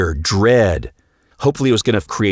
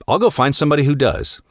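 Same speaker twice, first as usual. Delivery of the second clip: spiteful retort; 7 semitones higher, faster than usual. Retold or imitated. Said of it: "going down this path of".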